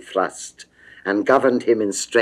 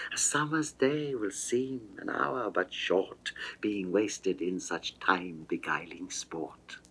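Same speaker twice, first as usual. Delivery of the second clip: softer, drifting into a breathless whisper; seductive whisper; 8 dB quieter than usual.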